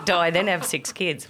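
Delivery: laughing. Real, not acted. Laughing at the fake reading.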